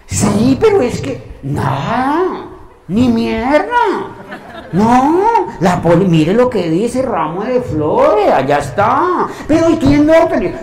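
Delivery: loud, high, indignant retort with laughs; heated argument. Retold or imitated. Arguing with the manager over the flowers, loud and indignant. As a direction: push back hard, voice up and loud.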